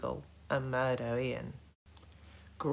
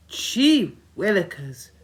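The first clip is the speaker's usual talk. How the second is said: groaning; 6 semitones higher, 8 dB louder than usual. A narrator's reading. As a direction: drag it out in a groan. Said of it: "groaned Hector".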